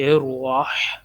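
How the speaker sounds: الرح ending in a clear breathy ح. Shown as a demonstration. Teacher showing the ha sound, breathy ha. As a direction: push air for the ح in الرح. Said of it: "ہا کی آواز نکالیں گے".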